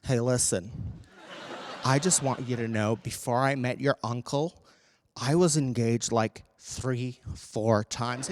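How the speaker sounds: a hint of boozy confession; tipsy aunt. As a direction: confide like an aunt a few glasses in. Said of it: "after she's had four glasses of Shiraz".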